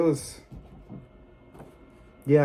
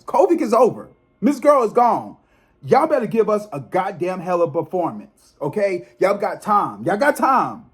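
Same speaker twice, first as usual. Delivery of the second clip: higher, pushy call-out to BET; impatient, raised scolding; fired-up demand; 4 semitones higher than usual. Real, not acted. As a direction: insist they step it up. Demanding a better BET performance.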